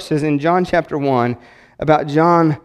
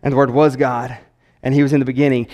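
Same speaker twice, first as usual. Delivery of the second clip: solemn scripture reading voice; 3 semitones lower than usual. Shown as a demonstration. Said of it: "I don't know why I'm talking like that".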